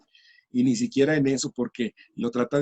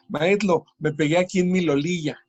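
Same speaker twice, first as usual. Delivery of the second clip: voz aniñada algo más aguda, diciendo "lolilla" por rodilla; niño que no sabe decir rodilla; 2 semitones higher than usual. Retold or imitated. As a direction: haz de niño pequeño que pronuncia "lolilla". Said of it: "le digo". (imitando a un niño que dice "lolilla")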